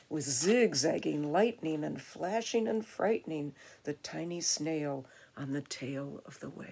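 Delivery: put-on measured, rhythmic reading to children; expressive storytime reading; picture-book narration. A narrator's reading. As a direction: read the rhyme with lively emphasis. Reads picture book aloud.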